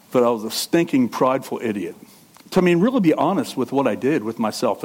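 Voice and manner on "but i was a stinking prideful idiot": "stinking prideful idiot" said through a chuckle; amused self-mocking repeat; laughing. Shown as a demonstration. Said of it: "I don't know if that's a specific sin".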